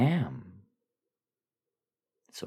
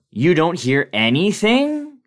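higher, louder, slow disbelieving cry; alarmed shout; 12 semitones higher, 12 dB louder than usual. Acted. Narrator asking the foreman if he hears the buzzing, alarmed shout. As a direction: call out in alarm over the noise.

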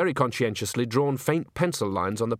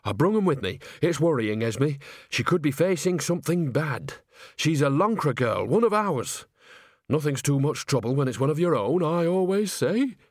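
lightly voiced concerned country woman; a touch of homely worry, lively pitch; Nanny character; 4 semitones higher than usual. Nanny urging Granny to help a Lancre girl, lightly voiced concern.

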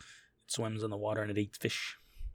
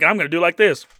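laughing impression; 6 semitones higher, 14 dB louder than usual. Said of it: "you're like".

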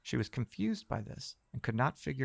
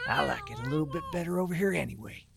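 sneering; 5 semitones higher than usual. Acted. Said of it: "he sneered".

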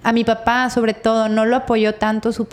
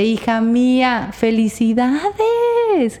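tender congratulations; 3 semitones higher, much slower than usual. Retold or imitated. Beaming dad congratulates daughter.

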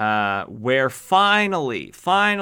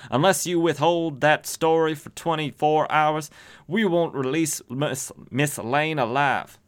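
put-on higher-pitched gangster accent sliding into southern; gangster turning southern; 5 semitones higher than usual. Gangster phoning a threat to an editor, botched gangster-to-southern accent. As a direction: start as an old-movie gangster, drift into southern. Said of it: "like, gangstery, but then it turned southern".

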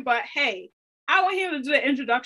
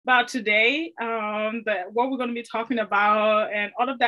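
trying not to smile. Real, not acted. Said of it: "Why are you smiling so hard?".

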